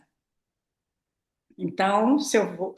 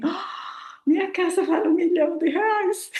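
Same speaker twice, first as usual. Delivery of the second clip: a giddy laugh through the words; half-laughing in amazement; laughing delight; 8 semitones higher than usual. Retold or imitated. Laughing as she realises her house is worth a million.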